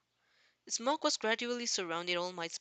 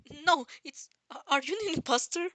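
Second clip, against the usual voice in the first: loud, higher panicked questioning; horrified; 7 semitones higher, 6 dB louder than usual. A narrator's reading. Izuku panicking, accusing the gaunt man of being fake. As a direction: demand it in alarm.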